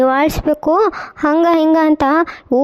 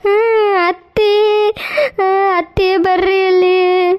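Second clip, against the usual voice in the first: crying; 3 semitones higher, slower than usual. Acted. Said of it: "ನೀ ಏನ್ ಅಳಕತ್ತಿರೋದು?".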